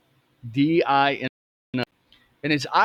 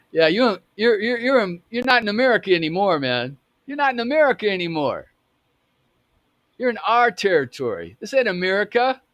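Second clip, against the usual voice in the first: imitated turf warning, pitched high; confrontational; 7 semitones higher than usual. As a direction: press the outsider with raised, insistent pitch. Retold turf threat to outsider.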